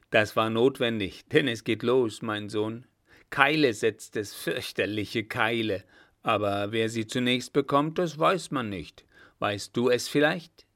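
emphatic, fatherly commander; brief the young officer with rough relish; lightly voiced old marshal. Blücher addresses the young officer. (leicht polternder alter Feldmarschall)

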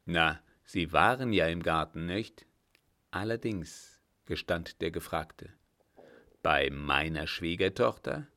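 put-on firm old captain. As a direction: speak as the old master calming a frightened man. Captain questions director.

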